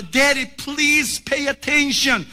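put-on a boy begging his dad to listen; pleading child voice. Son Junior insists a third time.

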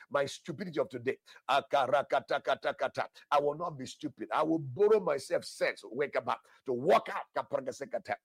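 loud, driving prayer with rattled-off tongues; fervent declaring prayer. Real, not acted. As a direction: declare it with force, breaking into rhythmic tongues.

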